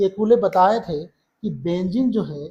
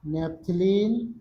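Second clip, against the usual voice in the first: नेपथलीन said very slowly, syllable by syllable; teacher dictating नेपथलीन slowly; slow enunciation; much slower than usual. Shown as a demonstration. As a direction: spell out नेपथलीन for the class. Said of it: "क्या क्या नाम बोले?".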